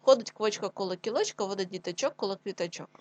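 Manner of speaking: brisk tongue twister. Shown as a demonstration. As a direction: speed it up but keep it clear. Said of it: "Швидше".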